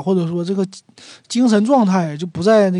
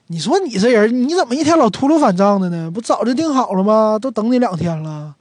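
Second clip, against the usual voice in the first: higher and louder scolding; complaining reproach; 4 semitones higher, 3 dB louder than usual. Acted. To a buddy who cancelled dinner two days running, annoyed scolding. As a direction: tell off the friend who flaked again.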